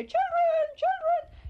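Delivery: high, loud call across a shop; retold call at top of voice. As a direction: summon the children from the doorway, full voice. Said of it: "at the top of her voice".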